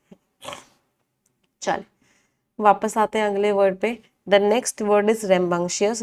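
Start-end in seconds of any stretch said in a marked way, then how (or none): 4.3-6.0 very slow, each word laid out for notes; slow dictation. Shown as a demonstration. Teacher reading the next word to the class, slow and deliberate. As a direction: spell it out slowly so students can write.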